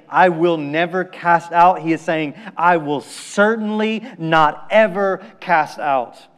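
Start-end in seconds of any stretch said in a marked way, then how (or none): 2.5-6.3 slow, deliberate stress on "certainly not ever"; emphatic. Retold or imitated. Preacher spelling out Jesus' double negative, emphatic. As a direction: weigh out each word of "certainly not ever". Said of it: "double negative that Jesus uses for emphasis".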